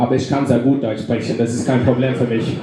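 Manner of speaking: matter-of-fact reply in fluent German; speaking German. Acted. Grandson answers his granddad, speaking fluent German. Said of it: "you'd be speaking German right now".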